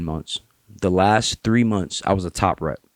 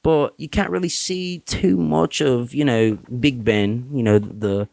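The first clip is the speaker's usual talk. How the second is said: put-on British accent; 4 semitones higher than usual. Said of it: "I'm getting that shit from Brooklyn".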